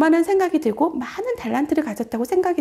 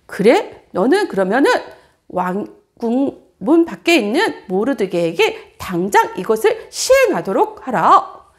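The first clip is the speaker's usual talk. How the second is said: louder, slow royal command; king's command; 3 semitones lower, 4 dB louder than usual. Acted. King orders Haman to honour Mordecai, slow loud command.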